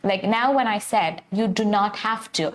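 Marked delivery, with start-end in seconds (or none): 1.3-2.5 You do not have to, each word given its weight; stressed do not. Shown as a demonstration. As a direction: spell out do not fully to stress the point. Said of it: "I said that because I wanted to stress that point".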